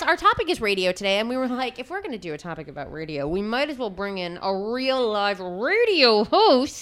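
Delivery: words pushed through clenched teeth; tight-jawed emphasis. Real, not acted. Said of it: "says through clenched teeth".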